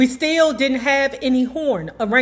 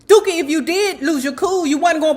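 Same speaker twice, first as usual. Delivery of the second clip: higher, fast ribbing aside; teasing jab; 6 semitones higher, 3 dB louder, faster than usual. Real, not acted. Friend teasing Dookie that he'd hide it from the book. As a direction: needle your friend with a grin.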